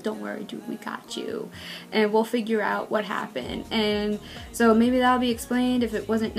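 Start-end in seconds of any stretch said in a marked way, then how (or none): 0.0-3.6 soft, hushed reassurance; comforting friends. Retold or imitated. Junkai and Qianqi comforting Wang Yan, hushed and soft. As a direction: say it softly, like patting a friend's back. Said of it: "and, like".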